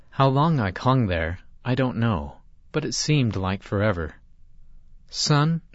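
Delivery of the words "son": high calling shout from below. A narrator's reading. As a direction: call up to a boy far above. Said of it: "I heard my father shout".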